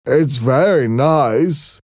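high, slow, gentle-mannered Merrick voice; timid deformed man, high and slow; Merrick's voice. A narrator's reading.

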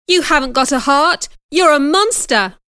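high, loud angry yell; angry shout. Acted. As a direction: scream the insult back at him. Jane shouting at John.

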